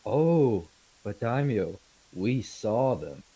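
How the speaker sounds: emphatic in-character storyteller; lightly hammed-up indignant envoy; theatrical merchant protesting. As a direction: insist on your account to a doubting lord.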